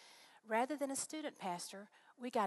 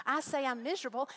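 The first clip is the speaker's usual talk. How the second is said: indignant retelling; 5 semitones higher, 8 dB louder than usual. Retold or imitated. Retelling her complaint, louder.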